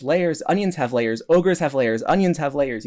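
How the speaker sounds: imitating an upset ogre, half-hearted; upset Shrek. Speaker quoting Shrek insisting ogres have layers, mock upset. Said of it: "Shrek gets very upset".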